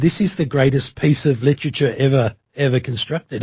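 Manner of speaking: ordinary delivery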